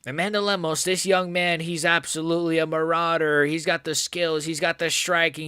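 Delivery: impression of a gushing fight commentator, pitched high; Joe Rogan. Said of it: "That's my best Joe Rogan".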